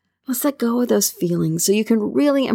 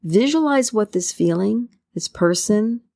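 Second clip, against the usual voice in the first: guided meditation. Acted. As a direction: ease the listener into calm with long pauses.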